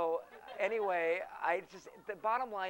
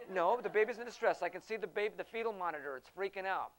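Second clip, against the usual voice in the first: loud, raised insistence; mock alarmed doctor voice; 3 semitones higher, 6 dB louder than usual. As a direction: push it like a panicked doctor. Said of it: "He goes".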